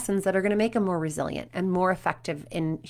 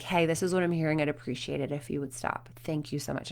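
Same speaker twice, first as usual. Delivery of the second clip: really calm; 5 semitones lower, 8 dB quieter than usual. Retold or imitated. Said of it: "in this really calm".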